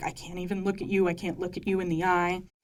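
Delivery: put-on tearful, crying voice. Retelling a show scene where Stassi apologizes to Kristen: imitating Kristen crying. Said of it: "already kind of crying".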